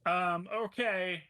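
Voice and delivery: whisper. Real, not acted. Whispered aside.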